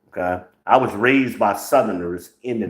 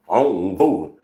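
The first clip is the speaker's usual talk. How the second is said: proud non-voter. Retold or imitated. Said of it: "some of y'all dumbasses say that proudly".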